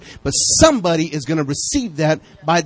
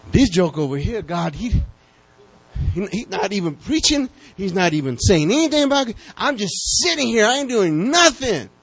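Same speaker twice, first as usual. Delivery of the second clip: complaining angel; 4 semitones higher than usual. Retold or imitated. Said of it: "the angels telling God that".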